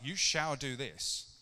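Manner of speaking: mock command. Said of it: "it's not like".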